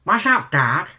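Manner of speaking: lightly voiced cartoon-rabbit catchphrase; amateur cartoon rabbit imitation; Bugs Bunny. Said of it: "my Bugs Bunny impression".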